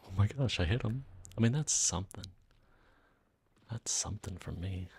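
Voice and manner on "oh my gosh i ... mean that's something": loud, thrilled exclamation; excited. Real, not acted. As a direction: burst out loud at a lucky hit. Lands a sniper shot.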